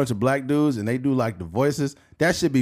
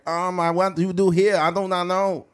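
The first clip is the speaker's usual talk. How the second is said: put-on Asian accent; 5 semitones higher than usual. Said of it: "if it's an Asian".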